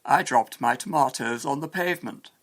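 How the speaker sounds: British pronunciation of "tomatoes"; English accent. Shown as a demonstration. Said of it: "An Englishman would say".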